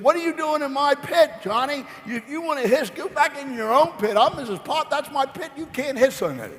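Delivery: Missus Potts. Retold or imitated. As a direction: voice a prim, high-pitched neighbor shooing a kid away. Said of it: "and said".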